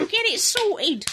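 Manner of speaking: high-pitched pretend telling-off; mock fight challenge. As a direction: play at squaring up for a fight. Mock quarrel continues.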